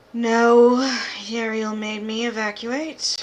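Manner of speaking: weary, drained delivery; tired voice. Acted. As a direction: sound worn out and tired. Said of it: "You hear a tired voice go".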